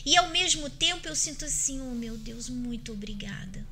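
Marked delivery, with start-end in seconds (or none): 1.8-3.6 soft, breathy whisper of thanks to God; hushed grateful prayer. Retold or imitated. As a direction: breathe the thanks out, barely voiced. Grateful prayer voiced as feeling.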